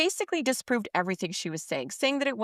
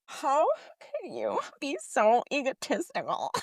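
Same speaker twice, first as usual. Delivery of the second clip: faux outrage; 4 semitones higher than usual. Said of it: "faux outrage".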